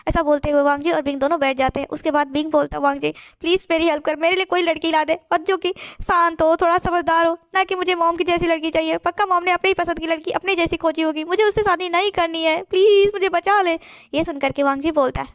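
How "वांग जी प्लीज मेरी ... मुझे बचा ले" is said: lightly acted whimpering plea to a friend; whiny pleading. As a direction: beg a friend for rescue, half-crying. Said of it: "बस रोए जा रहा है".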